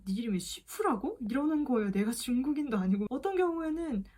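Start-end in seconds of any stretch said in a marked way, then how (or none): 0.0-1.2 시푸라고 as a checking question, p or f in place of s; mock mishearing of 지수 as 시푸; imitating misheard name. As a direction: echo the garbled 시푸라고 back as a question. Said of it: "어떤 사람은".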